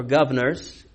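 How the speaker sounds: tentative Australian "governors", dropping the first r; attempted Australian accent. Shown as a demonstration. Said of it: "We were just doing that accent".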